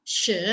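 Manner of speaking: SHE with a rising tone; second tone. Shown as a demonstration. Teacher quizzing students on meaning, second tone. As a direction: lift she from middle pitch. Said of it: "nada kedua".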